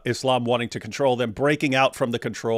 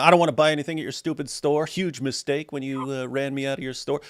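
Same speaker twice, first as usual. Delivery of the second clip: a lightly acted snooty gloat, brisk; Pretty Woman gloat; 3 semitones higher than usual. Streamer pretending to be Julia Roberts, gloating. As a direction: gloat at the store that threw you out. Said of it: "and then, uh".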